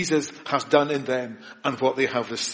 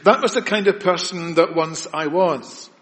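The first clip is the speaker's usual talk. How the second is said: emphatic Paul quote; 3 semitones higher, 4 dB louder than usual. Acted. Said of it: "He says".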